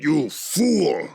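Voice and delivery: high, loud, contemptuous outburst; angry dragon. A narrator's reading. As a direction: spit it at an incompetent underling. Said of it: "muttered Gorlix".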